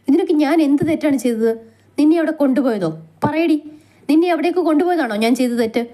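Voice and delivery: husband confronting his wife, rising angry voice; rising hurt anger. Acted. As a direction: let the hurt climb until it bursts out. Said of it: "അവൻ്റെ ശബ്ദം അവസാനം ഉയർന്നു".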